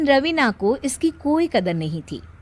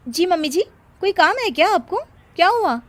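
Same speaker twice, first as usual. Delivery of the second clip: sugary put-on politeness; 8 semitones higher, 3 dB louder, faster than usual. Sudden sweet voice to mother-in-law.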